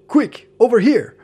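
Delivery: urgent call. Retold or imitated. Imitating dubbed anime dialogue.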